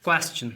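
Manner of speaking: क्वेश्चन with a clear cha sound, kwes-chan; teaching pronunciation. Shown as a demonstration. Teacher models the word for students. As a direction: say क्वेश्चन with ch, not sh. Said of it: "सबसे पहले".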